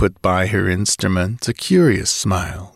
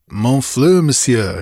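haughty; 3 semitones higher, 3 dB louder than usual. Acted. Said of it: "she ordered haughtily".

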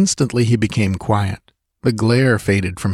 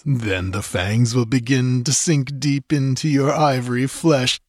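higher, slowed, taunting villain voice; gloating sorcerer; 3 semitones higher than usual. Acted. Sorcerer taunting the girl dancing among cobras, gloating. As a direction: savor every threat as she dances.

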